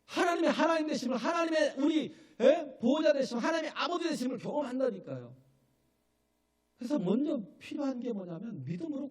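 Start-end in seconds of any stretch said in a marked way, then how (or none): 0.0-5.3 loud, high preaching at full force; fervent proclaiming. Real, not acted. Preacher proclaiming to the congregation, loud and high. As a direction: proclaim it to the hall, voice raised high.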